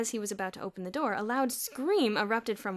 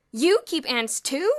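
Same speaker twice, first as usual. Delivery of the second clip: loud, high outraged cry; cried out; 6 semitones higher, 12 dB louder, slower than usual. A narrator's reading. One boy crying out at Bruno in the hall. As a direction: shout it in disbelief. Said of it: "cried one boy".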